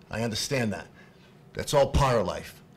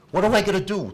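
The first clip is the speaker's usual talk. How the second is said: desperate cry; 7 semitones higher, 7 dB louder than usual. Real, not acted. Desperate father pleading to officials.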